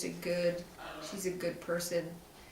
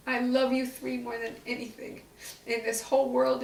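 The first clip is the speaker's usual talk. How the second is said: higher voice, fighting back real tears; trying not to cry; 4 semitones higher than usual. Real, not acted. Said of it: "I'll really try hard not to cry".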